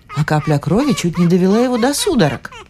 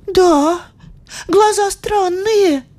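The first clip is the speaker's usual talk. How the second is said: put-on high, slow anxious girl voice; worried girl; 14 semitones higher, much slower than usual. A narrator's reading. Maggie worries about the eyes, high and anxious. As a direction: fret over it. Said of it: "заволновалась Мэгги".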